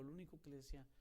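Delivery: ordinary talk, nothing marked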